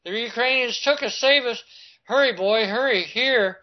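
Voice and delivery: high, pleading mock cries for help; imitating desperate pleas. Boy running to soldiers, high pleading mock cries. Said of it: "hollering in Russian".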